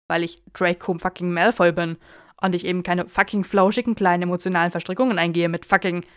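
an indignant rant building up; exasperated outburst. Acted. Draco ranting to Theo, loud and exasperated.

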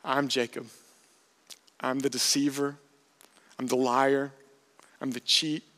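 understated defeat, a pause after each admission; retold admission of defeat, subdued; defeated confession. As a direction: confess it in resignation, one admission at a time. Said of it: "hear the defeat in his voice".

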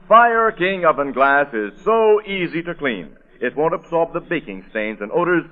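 "Fire King oven glass is so easy to clean" said slowly, every word weighted; slow, deliberate ad read. Shown as a demonstration. Announcer repeating the slogan for listeners, slow and deliberate. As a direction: lean on each word, slowly, selling it. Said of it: "That's it".

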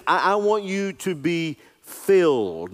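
slow, with "filled" leaned on hard; slow and emphatic, contrasting "filled" with merely interested; stress on filled. Shown as a demonstration. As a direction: draw it out and land on "filled". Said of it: "Notice he didn't say".

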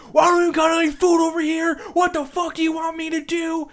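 high, loud mock outburst; flipping out. Stressed worker snapping at another manager, high furious yelling. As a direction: imitate a worker losing it completely. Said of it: "just flips the fuck out".

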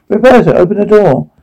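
high urgent plea; calling out. Acted. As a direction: call through the door, pleading. Pounding on door calling.

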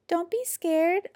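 small, high, slow creature voice; little voice. A narrator's reading. Little creature reassures Jim, small high voice. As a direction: say it tiny and high, drawn out. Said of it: "a little voice said".

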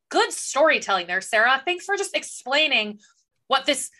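mock-grateful, with stretched emphasis; sarcastic praise. Reader thanking the author for explaining, sarcastic praise. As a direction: lay on insincere thanks for the author.

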